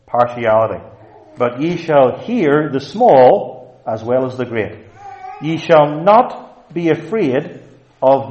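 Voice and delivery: slow, weighty sermon delivery; measured pulpit proclamation; emphatic preaching. Acted. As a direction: preach the verse out firmly, leaning on key words. Preaches on a verse with force.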